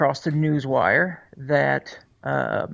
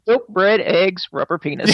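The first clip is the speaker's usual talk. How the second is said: milk, bread, eggs, said louder and higher; louder repeat; 4 semitones higher, 3 dB louder than usual. Shown as a demonstration. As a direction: repeat the list louder, with emphasis.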